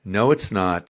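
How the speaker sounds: put-on slow, low, deliberate kid disdain; measured, bratty put-down; snotty entitled brat. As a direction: imitate a snotty child's final verdict. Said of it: "with the snottiest of, of eight-year-old entitled brat".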